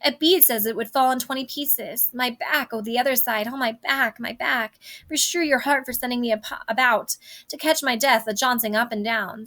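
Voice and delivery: moaning about her aching back; complaining nurse. Acted. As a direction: groan through the aches like an old nurse. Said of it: "oh, my back hurts".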